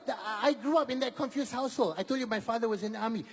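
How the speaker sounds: normal talking voice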